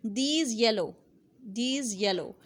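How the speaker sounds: "These yellow" with z and y merging into a zh sound; blended these yellow. Shown as a demonstration. Teacher sounding out these yellow for students. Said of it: "these yellow में".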